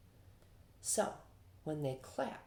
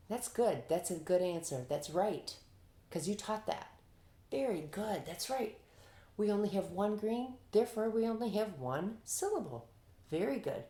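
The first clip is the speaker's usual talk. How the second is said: higher, encouraging teacher voice; teacher's praise; 6 semitones higher than usual. Acted. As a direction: praise a pupil in a lifted voice. Teacher acts praising students' answers.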